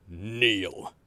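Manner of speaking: a hint of a commanding emperor, one firm word. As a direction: order them down with a single word. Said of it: "in the most commanding voice ever".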